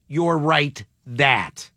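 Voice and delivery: slow "You're right that", with that kept as the point; stress on THAT. Shown as a demonstration. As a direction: say "You're right that" slowly, leaning to the end. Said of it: "Not "you're right".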